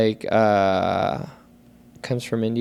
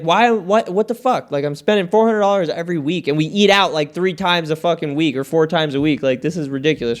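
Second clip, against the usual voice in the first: pissed off; 4 semitones higher than usual. Retold or imitated. Griping to his friend about grocery spending, a mock exasperated rant. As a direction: vent about the grocery bill, fading back to normal. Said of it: "it used to piss me off".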